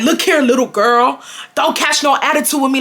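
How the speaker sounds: mildly heated retelling of a scolding; mad assistant principal. Retold or imitated. Assistant principal telling off little girl, getting mad. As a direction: imitate an adult getting mad at a student. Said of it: "he started getting mad at me".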